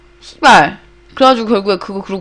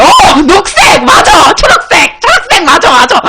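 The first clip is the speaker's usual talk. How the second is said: excited recognition; 6 semitones higher, 3 dB louder, slower than usual. Real, not acted.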